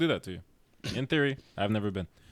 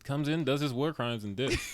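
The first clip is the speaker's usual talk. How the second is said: laughing; 4 semitones higher than usual. Real, not acted. Laughing while describing villain.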